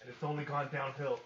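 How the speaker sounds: wrestling promo. Acted. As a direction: growl the challenge at the crowd. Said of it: "I love doing announcer voices".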